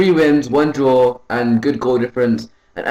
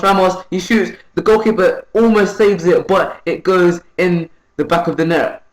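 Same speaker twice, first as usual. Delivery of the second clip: excited goal call; 5 semitones higher than usual. Real, not acted. Commentating his striker's goal, rising excitement. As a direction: pitch rising high as Ramos scores.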